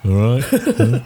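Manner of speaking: low, offhand acknowledgment; barely bothered to answer the announcer; nonchalant. Acted. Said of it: "like, nonchalantly".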